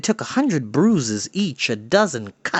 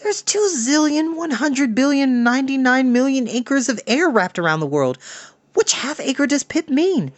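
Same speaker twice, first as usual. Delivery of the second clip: put-on much higher boy's voice, sarcastic; mock the vague directions in a kid voice; voiced boy Henry Hank; 11 semitones higher than usual. A narrator's reading. Henry Hank scoffing at Pipkin's directions, high sarcastic voice.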